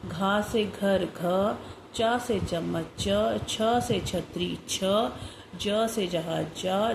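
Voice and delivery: slow teaching sing-song; slow picture recitation. Shown as a demonstration. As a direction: model each letter and picture slowly. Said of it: "चित्र देखकर लिखो".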